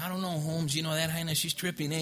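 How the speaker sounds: imitating his younger self's street slang, lightly voiced; a light take on how he talked back then, loose and streetwise; youthful homeboy slang, lightly imitated; old street slang. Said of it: "that's how I used to talk back then".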